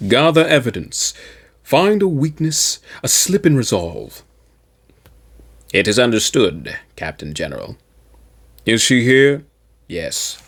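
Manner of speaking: measured, even audiobook reading; calm storyteller's narration; story narration. A narrator's reading. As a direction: read it like a serious war novel, steady and grave. Reads Warhammer fiction aloud.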